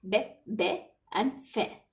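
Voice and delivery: "Be, be and fe" with "ay"-like vowels, not ee; "Be, be and fe" as French bébé and fée; French pronunciation demo. Shown as a demonstration. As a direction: model the French é in "Be, be and fe". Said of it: "How do you pronounce it?".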